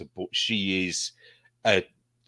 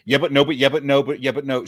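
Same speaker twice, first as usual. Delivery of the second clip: a lightly voiced stroppy Bristol teen, a bit higher and louder; Vicky Pollard impression; 3 semitones higher, 4 dB louder, faster than usual. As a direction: rattle off the dodge like a teen caught out, lightly done. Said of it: "And what it is, it's the".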